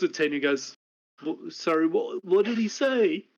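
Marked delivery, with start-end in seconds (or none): 1.2-3.2 menacing orc question. Acted. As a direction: ask it like a giant daring an answer. Orc looks at Ten.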